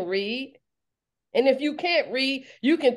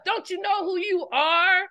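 shouted question; 8 semitones higher than usual. Acted. Preacher challenging her listeners, shouted. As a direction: shout it at them to wake them up.

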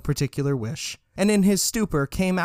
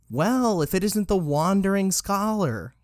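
theatrical greeting; 6 semitones higher than usual. A narrator's reading. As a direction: hail an acquaintance with playful grandeur. Motley hails Richard with mock grandeur.

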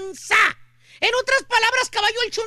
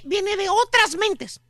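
slow mysterious; much slower than usual. Acted. Mysterious voice-of-other-minds claim.

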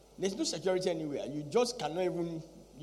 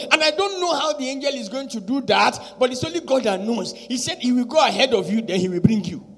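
full-force preaching; 3 semitones higher, 11 dB louder than usual. Acted. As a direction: fire rhetorical questions at the congregation.

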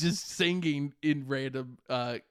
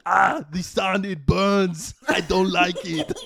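The speaker as Gollum; 2 semitones higher, 6 dB louder than usual. Acted.

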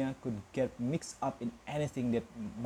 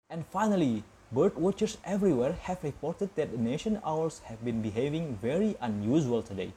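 news bulletin. Acted. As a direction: read it like the evening TV news. TV newsreader reads the evening news.

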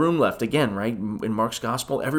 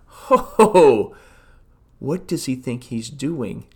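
scoffing teachers; 3 dB louder, slower than usual. Retold or imitated.

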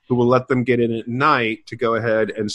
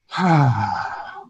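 weary sigh. Retold or imitated. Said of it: "sat there and went".

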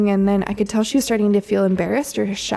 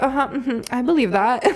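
mock nonchalant; 4 semitones higher than usual. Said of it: "kinda nonchalantly".

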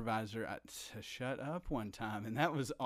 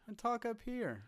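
much higher, thin voice; high voice demo; 11 semitones higher than usual. Shown as a demonstration. Guest showing her voice coach's advice in a higher voice. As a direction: push your voice way up. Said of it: "get my voice up here".

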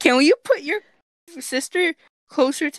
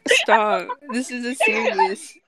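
anger turning to laughter. Acted. Mock stern scolding breaking into laughter.

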